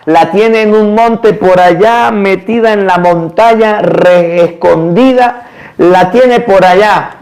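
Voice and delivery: a hint of a worried mother, drawn out slowly; distressed mother.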